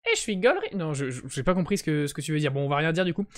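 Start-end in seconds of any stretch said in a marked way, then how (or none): 0.1-0.7 much higher put-on voice; jokey high-pitched chat voice on request; voice the viewer did. Shown as a demonstration. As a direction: squeak it out way up high, copying a chatter's voice. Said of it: "Non, mais dis le".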